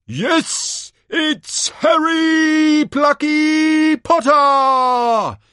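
very high, loud, stretched-out cry; hammed-up, drawn-out showman yell; announcer's shout. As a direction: holler the champion's name to the whole arena. Announcer cries out last champion.

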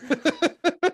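breaks into high laughter; laughing. Real, not acted. Telling friends about the Jar Jar kid, laughing. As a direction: laugh out the last word.

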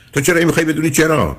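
normal talking voice

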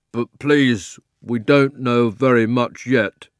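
lightly voiced snorty horse; a hint of a snorting old cab horse; nosy, snorty voice. The cab horse piping up, lightly snorty. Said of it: "a nosy and snorty kind of voice".

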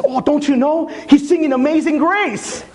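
disciple's voice. Retold or imitated. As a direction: voice the know-it-all young disciple. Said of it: "He says".

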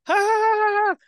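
high, loud imitation of a laughing crowd; mock laughter. Podcaster imitating everybody's reaction to dark jokes, mock laughter.

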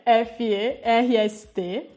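letters said one by one, slowly; spelling it out. Shown as a demonstration. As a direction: spell each letter out clearly. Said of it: "Eu vou soletrar".

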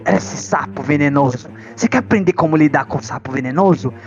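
hushed nature show host; wildlife host impression. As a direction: play the TV animal guy, hushed. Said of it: "o amigo dos bichos". (apresentador de natureza sussurrando)

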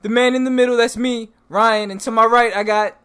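booming circus ringmaster announcing; loud, sing-song showman introduction. Pretend. Ringmaster style show intro.

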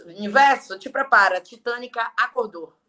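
proclamação encenada, mais grave, forte no começo; brado ao universo. Acted. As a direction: brade como quem convoca o universo. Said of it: "grito pro universo". (brado encenado de declaração)

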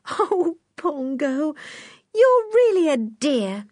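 put-on high, slow, tearful little girl; a girl moved almost to tears; tearful Anne. Anne touched by chimp's goodbye.

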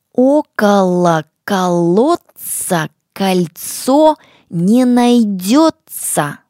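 slow, loud, every word separated; slow and clear. Shown as a demonstration. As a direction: dictate it slowly for children to repeat. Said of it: "Внимание, что у нас получается?".

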